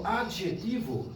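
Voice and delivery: slow "adjetivo" with a dj sound; soft-g letter sound. Shown as a demonstration. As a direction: draw out "adjetivo", voicing the dj. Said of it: "la litera jo".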